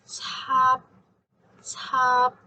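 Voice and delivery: Tap, the P held silent; unreleased P. Shown as a demonstration. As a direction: Tap with lips closed and no release. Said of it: "stop the airflow when your lips touch".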